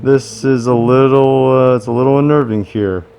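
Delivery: muffled behind a mask; inside a rubber mask. Real, not acted. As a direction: speak through a rubber mask. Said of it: "I really can't see in this mask".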